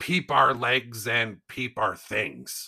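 swashbuckling, playful pirate voice. Recalling pushing someone away as they fought, the speaker talks like a pirate. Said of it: "I would talk like a pirate and go".

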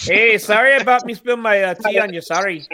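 horrible, clumsy put-on Scottish accent. Joking with a group about neighbouring countries, speak in a horrible fake Scottish accent. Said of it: "It was a horrible Scottish accent".

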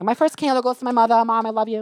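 Staten Island accent. Retelling a party bit, pretending to be a girl from Staten Island: pretend Staten Island girl accent. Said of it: "pretend to be a girl from Staten Island doing her candles".

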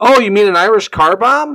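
very loud, high, blurted voice carrying far. Retelling a bar story, the speaker quotes the bartender: imitating a loud bartender. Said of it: "the bartender goes loudly".

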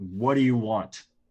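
very loud, booming, amplified shout. Playing a character in a tabletop game, calling out to the fae: booming yell. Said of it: "make my voice boom and just yell out".

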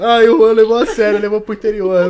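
talking through laughter. Joking about a friend taking a remark seriously, laughing while talking. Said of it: "Eu tô chorando, mano, de rir".

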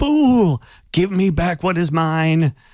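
monster voice, high, loud shrieking shout. Game master voicing the creature during a battle, creature's shout. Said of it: "you hear the creature shout".

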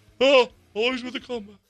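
very high, sick-sounding, needling voice. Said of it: "sounded like a very sick Dick Vitale talking trash".

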